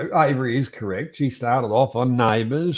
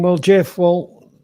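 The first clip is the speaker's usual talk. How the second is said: raised voice; 4 semitones higher, 3 dB louder than usual. Retold or imitated. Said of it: "So I said to him".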